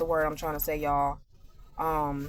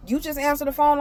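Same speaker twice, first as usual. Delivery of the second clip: accusing; 6 semitones higher than usual. Retold or imitated. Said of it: "And she was like".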